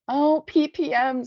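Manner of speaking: high, loud, drawn-out mocking wail; mock crying. A narrator's reading. Girl mimics the newcomer crying, mocking. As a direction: taunt her with a slow fake wail. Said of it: "to mimic crying".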